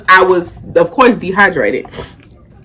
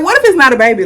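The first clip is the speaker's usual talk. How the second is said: anxious question; 5 semitones higher, much faster than usual. Retold or imitated. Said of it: "I'm kinda like".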